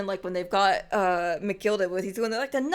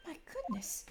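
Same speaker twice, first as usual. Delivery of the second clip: high swoon, much higher; swooning admirer; 6 dB quieter than usual. Acted. Onlooker gushing over the noble Irishman, high swooning. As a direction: gush over the gentleman.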